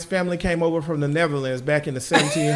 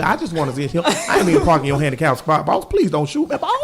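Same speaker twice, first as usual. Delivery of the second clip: mock plea to a cop; 5 semitones lower than usual. Pleading with a police officer.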